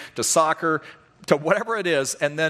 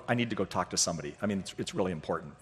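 fast and soft rushed excuse; fast, soft, hurried mock-serious excuse; hurried urgent excuse; 6 semitones lower, 8 dB quieter, faster than usual. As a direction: rush it like an urgent matter. Pretending urgent counseling need.

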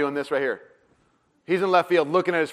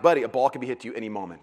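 laughing dad; 6 semitones lower, 4 dB quieter, faster than usual. Retold or imitated. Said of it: "I'm like".

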